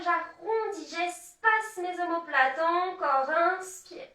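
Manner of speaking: yoga flow cueing. Acted. Leads the cat-cow movement.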